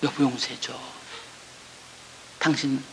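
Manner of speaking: soft, hushed tearful begging; tearful plea. Retold or imitated. Wife on her knees begging her husband, soft tearful plea. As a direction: plead quietly, close to tears. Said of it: "빌면서 울면서 용서해달라고 했어요".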